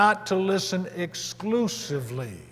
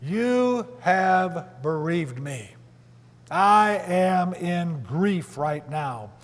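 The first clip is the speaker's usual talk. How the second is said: grieving Jacob; much slower than usual. Acted. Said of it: "It's a grieving heart".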